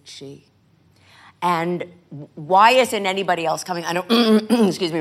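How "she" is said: barely audible single word; hushed one-word reply; very quiet. Retold or imitated. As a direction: drop almost to nothing. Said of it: "you very quietly said".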